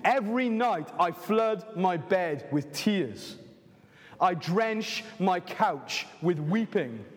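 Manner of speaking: slow, sorrowful reading of David's lament; mournful psalm reading. Acted. Preacher reading David's lament to the congregation, slow and mournful. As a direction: let each line of grief land, slowly. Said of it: "This is David".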